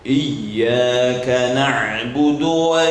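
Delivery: slow chanted recitation, drawn out; very slow melodic Quranic chant. Shown as a demonstration. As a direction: intone it slowly like tilawah.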